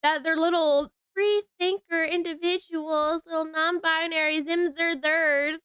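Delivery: high, slow mock-coddling tone; exaggerated sarcastic baby-the-students voice; mocking condescension. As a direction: belittle the students, drawing it out and rising. Mocks school's fear of its students.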